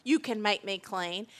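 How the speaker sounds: acted begging. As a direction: plead earnestly, stretching the key words. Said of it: "that's why people are begging God".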